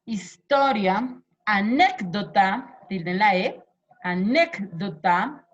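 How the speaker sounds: slow, stretched list words; slow dictation of the list. Shown as a demonstration. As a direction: draw each word out slowly.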